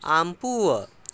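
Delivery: "I am poor" with "I am" run together as one sound, "aam"; teacher slowly running "I am" into "aam"; linked I am. Shown as a demonstration. Teacher demonstrating to students, "I am" linked as "aam". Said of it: "I am को बोलते हैं आम".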